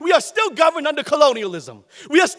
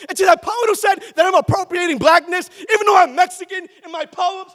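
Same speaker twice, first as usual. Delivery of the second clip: calling out; 4 semitones higher than usual. Real, not acted. Poet answering the rival who accused him of appropriation, defiant shout. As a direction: fire it straight back at the critic.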